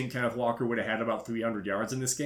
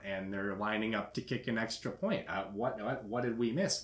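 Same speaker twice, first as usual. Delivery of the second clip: lightly imitated dull, droning bore; soft, measured energy-draining cadence; Colin Robinson; 4 dB quieter than usual. Imitating the boring guy in the seat behind, droning. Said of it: "sounded for all the world like".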